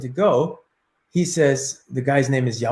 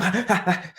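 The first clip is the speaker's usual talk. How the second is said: quick burst of breathy chatter, like racing time; speeded-up stutter of sound; rapid frantic noise; 3 semitones higher, 5 dB quieter than usual. Shown as a demonstration. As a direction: cram a frantic burst into one second. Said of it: "For me, the one second".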